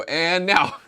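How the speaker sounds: high, loud announcer voice; dramatic announcer. Retold or imitated. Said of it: "hear someone go".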